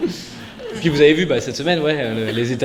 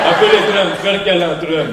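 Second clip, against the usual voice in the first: put-on Russian accent; 5 dB louder than usual. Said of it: "faut que je rebosse mon accent".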